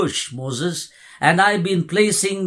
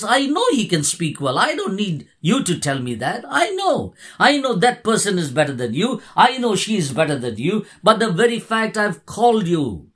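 firm divine insistence; 3 semitones higher than usual. Retold or imitated. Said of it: "the anger of the Lord kindled".

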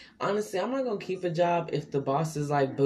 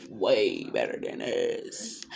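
slow emphatic repeat; 6 semitones lower, much slower than usual. Shown as a demonstration.

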